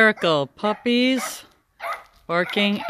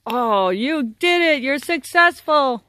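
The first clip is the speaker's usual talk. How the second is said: excited praise; 6 semitones higher, slower than usual. Real, not acted. Praising puppies after chase.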